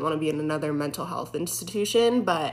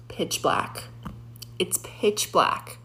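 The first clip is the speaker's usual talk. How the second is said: hushed; much slower than usual. Real, not acted. Eerie basement description.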